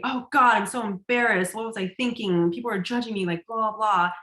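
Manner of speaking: mild mock panic of self-criticism; intense embarrassed self-judgment. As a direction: act out a touch of mortified inner chatter. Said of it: "Notice the intensity in that".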